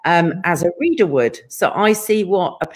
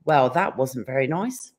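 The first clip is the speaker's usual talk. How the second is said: low, measured mock assistant; lightly voiced unimpressed digital assistant; voice assistant's reply; 7 semitones lower, 4 dB quieter than usual. Voice assistant scolding the caller, lightly mimicked, low and measured. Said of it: "I normally get".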